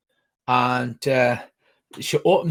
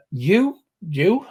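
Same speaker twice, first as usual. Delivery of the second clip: higher, questioning voice; startled recognition; 6 semitones higher than usual. Acted. Captive recognising someone in the room, startled. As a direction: ask it in rising disbelief.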